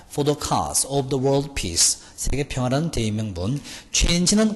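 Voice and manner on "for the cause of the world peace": very slow, spelled-out English; teacher dictating the phrase very slowly; slow dictation. Shown as a demonstration. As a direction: pronounce each word slowly for the class. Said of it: "제일 중요한 별표 박스입니다".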